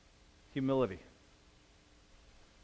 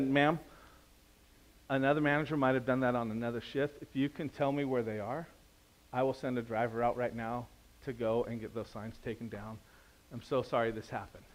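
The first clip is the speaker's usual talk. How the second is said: gentle; 3 semitones lower, 4 dB quieter than usual. Retold or imitated. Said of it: "I chose the road of gentleness".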